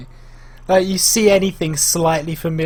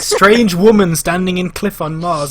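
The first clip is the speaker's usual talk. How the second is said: slow, loud tabloid headline; mock headline read; 2 semitones higher, 5 dB louder than usual. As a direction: announce it like a sensational headline. Reads out mock sensational headlines.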